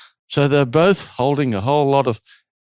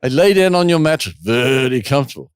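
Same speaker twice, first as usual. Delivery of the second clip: bad German accent; 4 dB louder than usual. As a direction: play up the German guest's stilted English. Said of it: "in my worst German accent".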